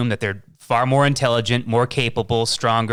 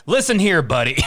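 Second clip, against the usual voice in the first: Clint Eastwood tough guy; 5 semitones higher than usual. Pretend. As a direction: lightly play the old western hero warning someone. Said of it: "be like".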